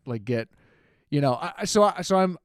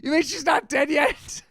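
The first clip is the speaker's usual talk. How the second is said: slow, airy, higher gasp of disbelief; stunned disbelief; 9 semitones higher, slower than usual. Retold or imitated. Cat owner stunned when the vet says the cat is only asleep, airy and slow. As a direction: breathe it out in shock, mouth hanging open. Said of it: "I just immediately said".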